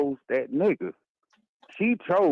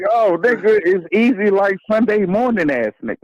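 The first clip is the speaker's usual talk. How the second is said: put-on very old man; 5 semitones higher, 6 dB louder than usual. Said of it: "your old man voice".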